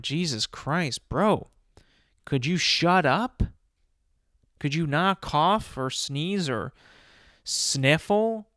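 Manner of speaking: telling off a sick coworker, exasperated; exasperated rant. Retold or imitated. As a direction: vent at the coughing coworker, fed up.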